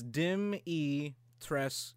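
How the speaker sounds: "Dim E Tres-" slowly, each syllable apart; syllable-by-syllable pronunciation. Shown as a demonstration. Cohost reading out a forum's pronunciation guide, syllable by syllable. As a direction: sound out "Dim E Tres-" in separate slow pieces. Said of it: "how to pronounce her fucking name".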